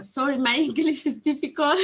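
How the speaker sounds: laughing it off, a little self-conscious; student laughing at her own English; embarrassed laugh. Real, not acted. Embarrassed apology about her English.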